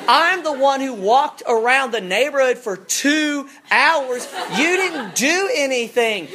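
high, loud, slow wailing protest; child outraged at parents, laughing wail; child's tantrum. Retold or imitated. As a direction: cry out like a wronged little kid. Child melts down over candy.

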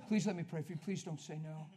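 aggressive pleading. Retold or imitated. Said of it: "That's how aggressive I was".

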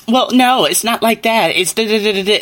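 high-pitched mimicry of a contradicting girl; mock know-it-all. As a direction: butt in with a mocking, high correction.

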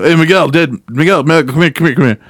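urgent summons. Retold or imitated. Coworkers calling him over before deliveries, urgent. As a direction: imitate a coworker urgently beckoning.

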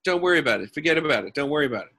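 put-on light Brooklyn accent; easygoing Brooklyn fella. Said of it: "starting to slip into, like, a Brooklyn accent".

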